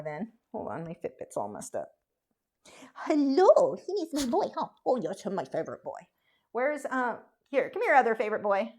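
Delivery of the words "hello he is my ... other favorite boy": cooing at dog. Real, not acted.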